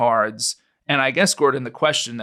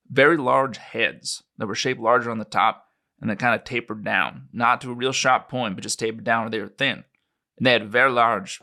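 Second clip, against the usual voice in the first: put-on a light New Mexico ranch-country accent; Roswellian accent. Witness describing the crash site to his interviewer, lightly Roswellian accent. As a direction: tell it like a Roswell local witness. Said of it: "my best attempt at a Roswellian accent".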